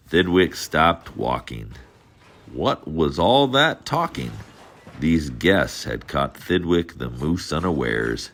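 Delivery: lively storybook read-aloud; reading to children. A narrator's reading. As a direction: read it like bedtime for little kids. Reads Dr. Seuss to children.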